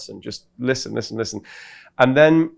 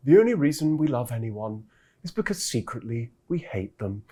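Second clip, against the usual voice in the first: Alain de Botton; 4 dB quieter than usual. Retold or imitated. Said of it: "I enjoy doing Alain de Botton".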